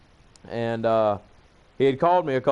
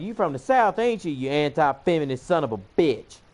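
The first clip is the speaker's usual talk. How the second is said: higher-pitched mock hostile jab; mock accusation; 3 semitones higher than usual. Feminist sneering at him for his Southern accent, mock accusation. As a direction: imitate an accusing heckler.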